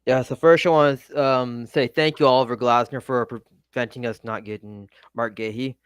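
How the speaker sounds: sarcastic thank-you. Acted. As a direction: fake gratitude, passive aggressive. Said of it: "Total sarcasm there. I'm being passive aggressive".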